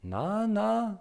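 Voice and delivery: put-on very high, loud little-boy no; agitated child. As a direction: shake it off impatiently. He's getting more and more agitated.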